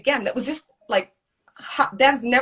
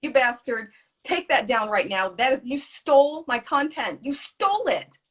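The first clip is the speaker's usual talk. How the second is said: retold angry outburst; 4 semitones higher than usual. Creator replaying her DM fight with the man who stole her content, furious. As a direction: pitch climbing higher into indignant accusation. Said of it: "And I lost my shit".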